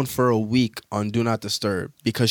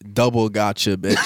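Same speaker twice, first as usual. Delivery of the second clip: laughing. Real, not acted. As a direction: read out while laughing. Reading email, cracking up.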